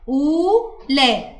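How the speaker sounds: "أولى" very slowly with a long "oo"; long oo vowel. Shown as a demonstration. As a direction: draw out the first vowel of "أولى". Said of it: "وبعديها مد بالواو". (مدّ الواو في "أولى")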